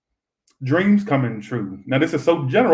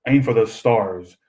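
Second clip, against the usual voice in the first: uppity Disney voice; 2 semitones lower than usual. Acted. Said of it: "Why am I talking like that?".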